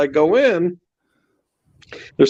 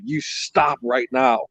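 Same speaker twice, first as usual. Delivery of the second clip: slow, drawn-out command; retold stern order; 4 dB quieter, slower than usual. Storyteller replays ordering the manager to stop, slow and stern. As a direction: spell out the order slowly, without shouting.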